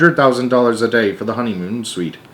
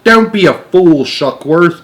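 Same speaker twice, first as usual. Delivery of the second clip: sharp, loud, higher rebuke; snapping; 6 semitones higher, 6 dB louder than usual. Acted. Ground control to Shuckworth, snapping angrily. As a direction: scold him impatiently. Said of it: "snapped ground control".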